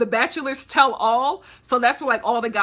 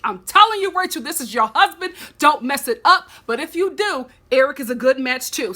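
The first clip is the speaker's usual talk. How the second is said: mock matchmaker pep talk; 2 semitones higher, 4 dB louder than usual. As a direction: talk her into it like a meddling friend. Advising Rachel at the screen.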